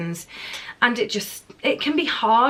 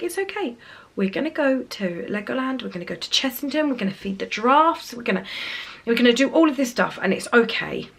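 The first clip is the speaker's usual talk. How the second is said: bright reassurance. Retold or imitated. Mum consoles her daughter with plans of fun, gently upbeat. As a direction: promise treats to lift her spirits.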